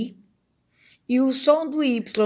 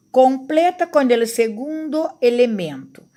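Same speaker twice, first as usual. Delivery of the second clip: whispered instruction; 3 semitones higher than usual. Shown as a demonstration. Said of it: "reading task instruction". (instrução sussurrada)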